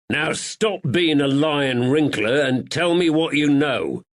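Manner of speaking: loud menacing demand. Acted. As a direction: lean in and threaten. Woods threatens the draper.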